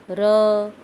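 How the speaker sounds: र said loud and held, the full अ sound ringing; demo of the sound. Shown as a demonstration. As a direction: hold र loudly so the अ is heard. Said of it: "तो स्वर की आवाज़ आ रही है". (र को ज़ोर से खींचकर बोलना)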